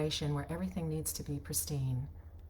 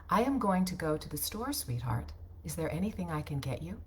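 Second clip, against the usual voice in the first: every word crisply pronounced, robotic; Siri-like read; 3 dB quieter than usual. Shown as a demonstration. Wife to her husband, stiff Siri-like read. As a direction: read like a voice assistant. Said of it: "See the difference?".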